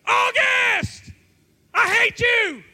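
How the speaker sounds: high, full-voiced shout across a distance; retold yell. Young man yells at his girlfriend's friend across campus, loud shout. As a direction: holler it out at an enemy. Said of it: "And I just yelled".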